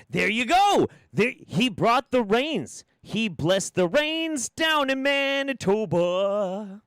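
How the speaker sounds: high, slow mock awe for the rain bringer; mock reverent praise. Host hails the weather witch in awe. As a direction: proclaim it like a hymn to the rainmaker.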